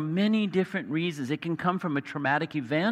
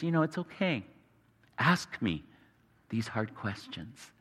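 soft, lowered, unhurried invitation; gentle reassurance; 7 semitones lower, 6 dB quieter than usual. Acted. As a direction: quietly give them permission. God gently invites hard questions.

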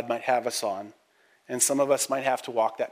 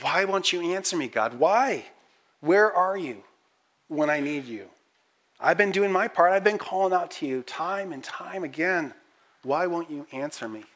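pleading cry; 4 semitones higher than usual. Pretend. Voicing the psalmist's pleading cry.

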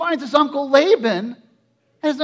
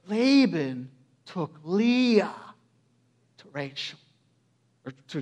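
low, slow, trailing almost to nothing; hushed reveal; 7 semitones lower, 7 dB quieter than usual. Shown as a demonstration. Preacher breaks shocking news to congregation, hushed. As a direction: let "Leah" and "slept" hang softly.

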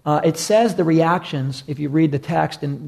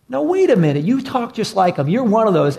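higher, louder accusing; insistent accuser; 5 semitones higher, 3 dB louder than usual. Retold or imitated. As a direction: corner him with it.

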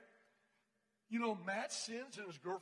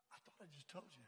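low, very soft grumble; muttered thought; 6 semitones lower, 19 dB quieter, faster than usual. Retold or imitated. Man thinking as leader asks about his frustration, exasperated mutter. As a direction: keep it under your breath, exasperated.

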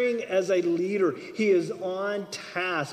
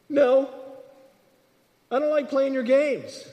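firm refusal; 6 semitones higher than usual. Pretend. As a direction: dismiss the game outright. God refuses to play games.

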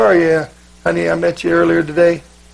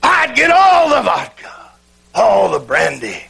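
shouting preacher. Retold or imitated. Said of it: "Then he said".

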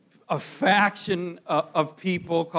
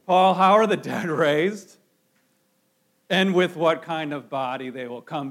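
mocking; 5 dB louder than usual. Shown as a demonstration. Preacher reads the Corinthians' question as skeptics would, mocking. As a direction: sneer at the idea while you ask it. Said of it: "So we need to read it like this".

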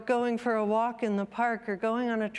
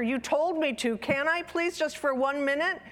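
put-on pleading child; 6 semitones higher than usual.

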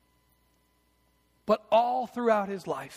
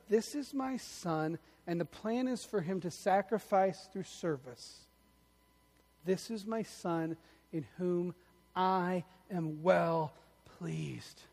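tender voice of God; 6 dB quieter, slower than usual. Pretend. Quoting God softly.

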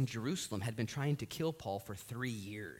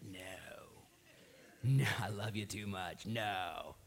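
gentle voice of God; 6 semitones lower, 5 dB quieter, slower than usual. Retold or imitated. God's voice acted.

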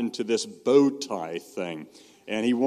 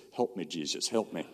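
soft, low little plea; simple plea prayer; 4 semitones lower, 6 dB quieter than usual. Shown as a demonstration. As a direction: demonstrate a humble prayer, quietly. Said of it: "It goes like this".

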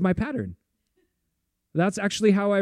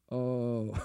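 soft retold moan; 5 semitones lower, 8 dB quieter than usual. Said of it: "I started moaning".

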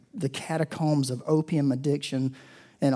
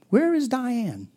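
calling out slowly, voiced high; 8 semitones higher, slower than usual. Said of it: "and he goes".

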